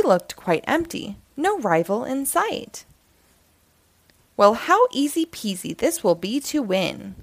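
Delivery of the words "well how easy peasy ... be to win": smirking. Acted. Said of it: "smirked Squirrel".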